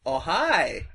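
slow, laughing put-on accent; slowly, with a laugh breaking through; Tommy Wiseau voice. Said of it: "Tommy Wiseau".

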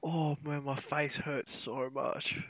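barely talking through real laughter; laughing hard. Real, not acted. Co-host wheezing with laughter at the rant, breathless laughing. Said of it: "Oh, I'm crying".

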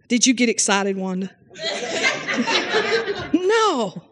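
normal talking voice

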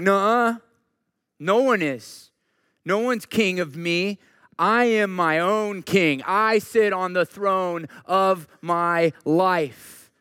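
hammed-up stubborn refusal to bow to anyone; mock defiance. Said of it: "if you're resistant and you're like".

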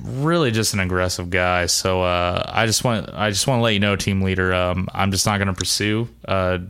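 low, measured radio report; understated guard on the radio. Pretend. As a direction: report in to the team leader in a low voice. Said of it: "hear him over the radio go like".

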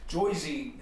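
JOYZY with an oy vowel; "Joyzy", first syllable like joy; Staten Island pronunciation. Shown as a demonstration. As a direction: say Jersey as "Joyzy". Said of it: "it sounds like more like Staten Island".

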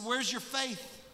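high, incredulous question; incredulous rebuke. Acted. Jesus asking his disciples, high incredulous. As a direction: pitch it up in disbelief.

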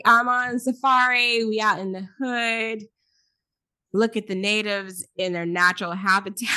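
lightly voiced safari narrator; a hint of a wildlife presenter; nature documentary. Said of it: "Like a safari? National Geographic".

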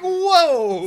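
high, loud "whoa" of amazement; re-enacted awe. Viewer reliving the ceiling slam, loudly amazed. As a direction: act out being blown away.

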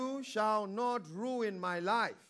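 slow, firm declaration; authoritative command. Shown as a demonstration. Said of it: "speak to your problems with authority".

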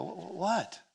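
high, quiet startled stammer; a taken-aback retold "what". Husband to his crying wife, startled.

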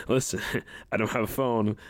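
chuckling through the words; laughing denial. Real, not acted. Student laughs while denying he has a phone, laughing.

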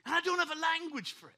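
loud, high cry of being stuck; overwhelmed outburst. Real, not acted. Preacher confessing he is stuck to his church, overwhelmed outburst. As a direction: raise voice and pitch in frustration.

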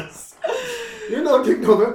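high, loud exasperated mock. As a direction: throw up your hands, laughing. Mocking the comic's post.

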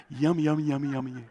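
put-on broad singsong kids theatre. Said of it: "Can you say that with me?".

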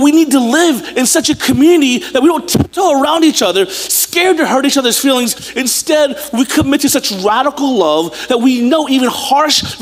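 high, urgent sermon delivery; impassioned preaching. Acted. Preacher urging his people to love radically, impassioned.

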